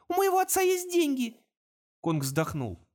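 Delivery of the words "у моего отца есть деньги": put-on higher, louder desperate girl's offer. A narrator's reading. Girl offers Kong her father's money, desperate. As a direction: bargain in panic.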